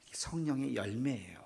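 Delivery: whispered, hushed answer; a hushed whisper to the congregation; whispered reveal. Real, not acted. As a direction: let it out as a soft whisper.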